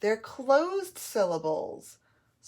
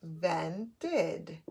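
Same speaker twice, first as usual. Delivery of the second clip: INVENTED pulled apart slowly into syllables; 2 semitones lower, 4 dB quieter than usual. Shown as a demonstration. Teacher sounding out a word for spelling, syllable by syllable. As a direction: break INVENTED up with clear pauses. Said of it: "Those are my two syllables".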